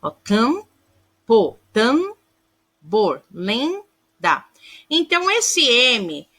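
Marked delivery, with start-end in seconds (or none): 0.1-4.4 campo, tambor, lenda split after a drawn-out nasal first syllable; nasal vowel demo. Shown as a demonstration. Teacher showing pupils nasal vowels, syllable by syllable. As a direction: hold the nasal in cam, tam and len, pause, finish each word. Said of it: "um som nasal".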